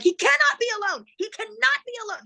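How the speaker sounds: very high, panicked retold plea; retold hysteria, high and insistent; losing it. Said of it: "losing it".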